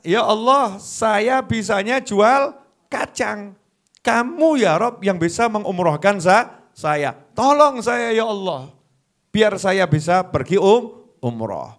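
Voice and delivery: pleading peanut seller. Retold or imitated. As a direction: beg God earnestly but humbly.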